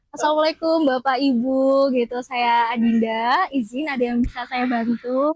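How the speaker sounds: polite, slow and low welcome; campus ambassador voice. Shown as a demonstration. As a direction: greet guests like a campus ambassador. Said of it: "Gaya ngomong paling duta kampus banget".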